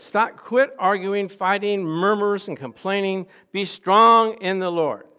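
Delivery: loud, slow, deliberate charge; stern command. Acted. Preacher quoting Paul's command to the church, loud and slow. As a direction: drive each word home. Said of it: "He says".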